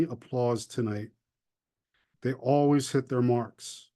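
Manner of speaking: measured poem recital with long pauses; unhurried, deliberate verse delivery; poetry reading. Acted. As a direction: read your poem line by line, letting each phrase hang. Reads own poem aloud.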